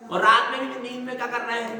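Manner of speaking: normal talking voice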